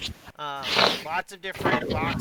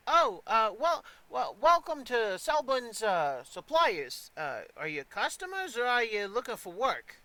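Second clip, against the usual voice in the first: put-on higher-pitched eager young groom; teenage groom, flustered; 5 semitones higher than usual. Young groom greeting arriving customers, flustered. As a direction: stammer a welcome as a teenage stable hand.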